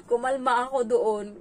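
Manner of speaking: choked up as she recalls calming down; teary. Real, not acted.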